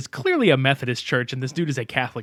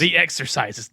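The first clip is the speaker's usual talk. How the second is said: movie quote. Retold or imitated. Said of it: "Remember that shit from Stay Tuned?".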